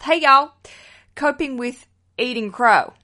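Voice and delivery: put-on hammy Southern belle accent. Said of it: "I love doing a Southern accent".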